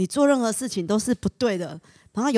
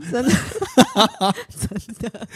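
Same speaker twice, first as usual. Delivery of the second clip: nervous laugh; 3 semitones higher, 4 dB louder than usual. Real, not acted. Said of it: "超难录的".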